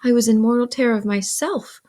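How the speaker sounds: expressive, measured read-aloud; story narration. A narrator's reading. Older Pip recounts going upstairs to bed, narrating. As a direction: read the novel with animated emphasis.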